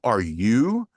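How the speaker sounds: "you" lifted in a rising question; stress on YOU. Shown as a demonstration. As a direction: inflect upward on the word "you". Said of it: "he wanted inflection on the word you".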